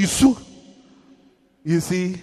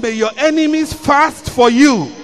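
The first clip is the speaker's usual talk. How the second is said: repeated louder and higher for the congregation; 3 semitones higher, 6 dB louder than usual. Real, not acted. Preacher repeating louder because the congregation missed it. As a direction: say it again, pushing it out louder. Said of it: "You didn't hear me. I said".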